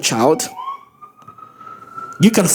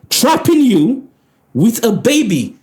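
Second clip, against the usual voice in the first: mocking quote; 4 semitones higher, slower than usual. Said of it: "She said".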